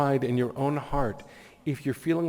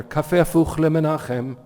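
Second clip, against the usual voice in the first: loud, raised barista call; higher, projected order over the mic; 6 semitones higher, 7 dB louder than usual. Retold or imitated. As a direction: announce it to the kitchen behind you. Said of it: "she says into the mic for the kitchen".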